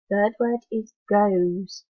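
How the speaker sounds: goes said slowly and clearly; slow dictation. Shown as a demonstration.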